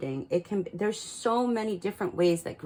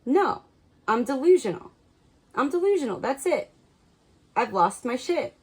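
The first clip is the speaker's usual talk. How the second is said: higher, louder panicky inner voice; imitating the viewer freaking out that they have lost it; mock panic; 5 semitones higher, 4 dB louder than usual. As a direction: play the frantic self-doubter, half joking. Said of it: "you've been like".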